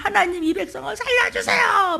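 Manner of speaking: high shouted plea; crying out. Retold or imitated. Moses crying out to God for the people, shouting. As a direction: cry out to God. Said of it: "부르짖어서".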